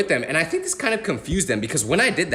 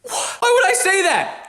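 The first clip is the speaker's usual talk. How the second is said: high, slow, put-on parent voice; mimicking parents; much slower than usual. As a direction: drag it out like a fussy parent. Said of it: "That's my parents' line".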